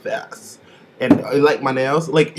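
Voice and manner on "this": a breathless unvoiced whisper on this. Shown as a demonstration. Reviewer demonstrating a meek queen's whisper. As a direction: drop to a whisper to show the quiet type. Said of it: "who is not talking like".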